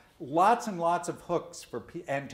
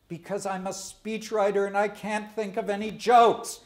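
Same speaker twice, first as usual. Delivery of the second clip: laughing punchline; 7 semitones higher, 5 dB louder than usual. Real, not acted. Joke punchline, laughing through.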